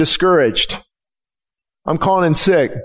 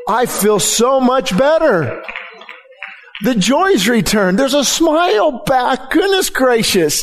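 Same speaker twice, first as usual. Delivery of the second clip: higher, slower burst of relief; light imitation of a cheerful man; mildly hammed-up delight; joyful gentleman; 5 semitones higher than usual. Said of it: "He goes".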